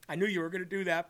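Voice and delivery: God moved when honored, said hushed; hushed tender aside. Retold or imitated. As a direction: say it softly, touched and knowing. God's tender private reaction.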